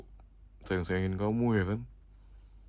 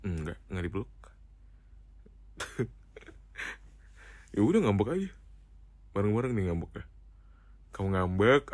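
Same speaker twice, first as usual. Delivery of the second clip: ordinary talk, nothing marked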